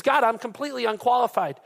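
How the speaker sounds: lightly acted Moses begging off; pleading Moses. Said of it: "He says".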